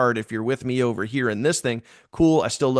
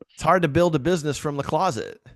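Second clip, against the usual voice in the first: lightly imitated Southern Georgia accent, higher; a hint of Southern Georgia in the voice; Ivy; 4 semitones higher than usual. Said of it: "in his kinda Southern Georgia voice".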